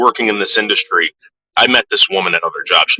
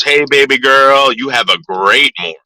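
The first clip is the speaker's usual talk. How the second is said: lightly voiced catcaller, opening slow and raised; imitated catcall; 4 semitones higher than usual. Coworker greeting a female building supervisor, imitated catcall. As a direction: draw out the greeting in a mock come-on. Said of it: "like that".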